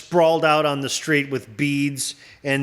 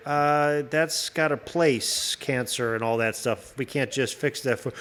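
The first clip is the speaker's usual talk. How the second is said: lower, quieter, dodging tone; evasive alien; 3 semitones lower, 5 dB quieter than usual. Pretend. Alien dodging a question about curing cancer. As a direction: hedge softly like an alien ducking the question. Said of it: "they'd be like".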